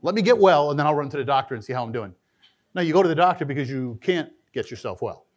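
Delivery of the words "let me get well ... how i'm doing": quick, breezy voicing of a silly plan; mock foolish reasoning. Preacher mocking a sinner who waits to get well, quick and breezy. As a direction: rattle off the absurd excuse lightly. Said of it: "That's like saying".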